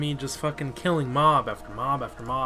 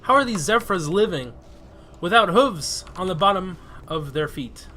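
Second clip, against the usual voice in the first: incredulous; 4 semitones higher, 5 dB louder than usual. Retold or imitated. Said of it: "And you're like".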